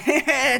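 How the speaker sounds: high, drawn-out mock giggle; imitated goofy laugh. Host imitating how the actor laughs, goofy giggle. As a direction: mimic a silly loose laugh. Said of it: "笑う時もこうやって".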